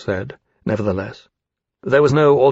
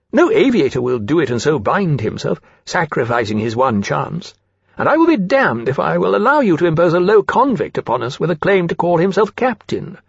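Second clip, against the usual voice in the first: haughty, higher-pitched outrage; indignant refusal; 5 semitones higher than usual. Acted. Rankin refuses to accept a convict as captain, indignant. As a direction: refuse with offended authority.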